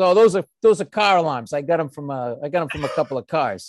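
casual, offhand street hustler's sales patter. Retelling a guy offering goods at a gas station: imitating a hustler selling things. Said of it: "He goes".

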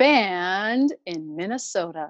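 drawn-out ballpark baseball announcer style. Closing the episode by announcing the show's name, like a baseball announcer. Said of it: "like a baseball announcer".

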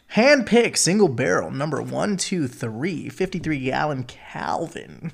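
soft, practiced radio-announcer delivery. Showing off the radio voice he has been practicing lately. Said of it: "practicing my radio voice".

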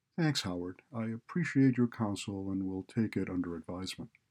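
ordinary delivery

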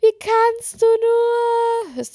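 very high, slow, drawn-out hysterical sobbing wail. Quoting a woman's reaction to hearing about contact with Bernd, mimicking hysterical crying. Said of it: "Hysterisch heulend".

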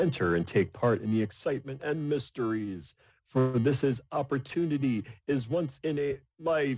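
big booming voice. Voicing a voice that speaks to players in a cave: booming voice. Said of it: "there's a booming voice that then speaks".

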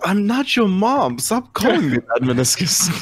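high, slow, annoyed character voice. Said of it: "And Shava goes".

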